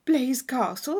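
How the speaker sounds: put-on girl hearing of a castle, thrilled; eager surprise. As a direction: catch the name with delight. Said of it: "cried Catherine".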